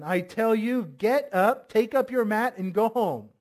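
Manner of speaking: lightly voiced authoritative Jesus; commanding. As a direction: give it as a direct command. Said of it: "might seem like a, not a command".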